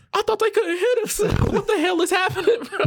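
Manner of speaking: high, giggling panic over the bat; laughing disbelief. Retold or imitated. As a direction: laugh it out, half scared, half amazed. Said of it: "I'm sitting there like".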